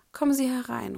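teacher calling come in through the door. Acted. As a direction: call the visitor in from inside. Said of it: "ruft McGonagalls Stimme".

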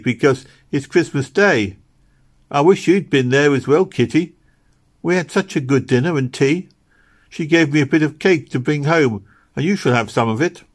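put-on lively, high voice of a kind little girl; eager little Meg. Little girl telling Kitty about Christmas dinner, eager. Meg's figure in dialogue.

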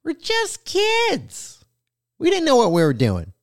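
high, slow, drawn-out whiny plea; quoting Candace Owens. Retold or imitated. Podcaster mocking Candace Owens' childhood excuse, whiny. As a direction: mimic her pleading, stretched thin. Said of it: "she was like".

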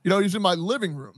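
a light put-on Spanish accent, laughing through it; mock the caller with a Spanish accent; lightly imitated Spanish-accented caller; thick Spanish accent. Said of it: "saying in a thick Spanish accent".

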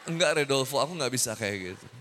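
hammed-up soap-opera heartbreak, half sung; mock melodrama. Ustaz mocking a dumped woman's lament, hammed-up melodrama. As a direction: overplay the dumped lover for laughs. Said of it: "Nggak usah lebay".

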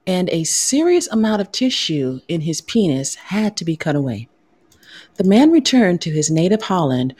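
mock news anchor delivery; news reporter voice. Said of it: "Get my news reporter voice on here".

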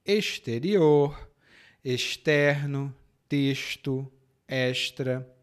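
"exterior, externo, texto, extra" with X hushed as sh; "exterior, externo, texto, extra" measured, each X a sh; Ceará sh. Shown as a demonstration. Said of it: "No meu sotaque do Ceará é sh".

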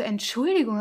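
"Entschuldigung" said loud and pointed; "Entschuldigung" firmly stressed, falling at the end; pointedly stressed. Retold or imitated. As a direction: retell "Entschuldigung" as an emphatic protest. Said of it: "So richtig betont".

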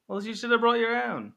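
high, loud jeering taunt; mocking taunt. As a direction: sneer it at him. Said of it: "that wasn't even German".

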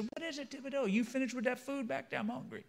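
high-pitched Cajun character voice; Cajun accent. Acted. Boudreaux asking Thibodeau about supper, high Cajun accent. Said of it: "start talking like a Cajun".

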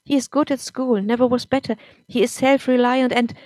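pleading defence. Acted. Mother defending her son.

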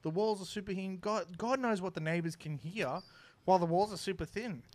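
a hint of a fed-up neighbour complaining; indignant neighbour. Neighbour complaining about her renovation, lightly voiced indignant rant. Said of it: "she comes over and she goes".

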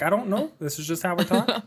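innocent Canadian shrug; Canadian accent, answering the wife. Acted. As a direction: play dumb in a Canadian accent. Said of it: "this accent".

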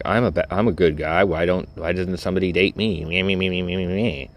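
mock whining little complainer; whiny self-mockery. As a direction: lightly mimic a self-pitying whiner, ending in singsong babble. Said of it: "like a little bitch would".

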